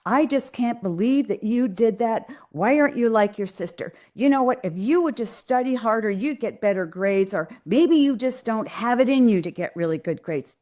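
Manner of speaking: lightly acted disapproval of a child; critical put-down. Parent comparing a child to the sister, mildly exasperated put-down. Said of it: "Never put them down".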